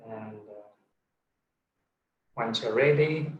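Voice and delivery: unhurried meditation guidance with long pauses; guided meditation. Real, not acted. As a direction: ease them gently into stillness. Leads a meditation.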